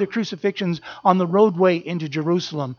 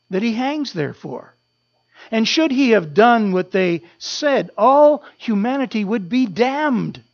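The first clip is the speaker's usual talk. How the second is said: ordinary talk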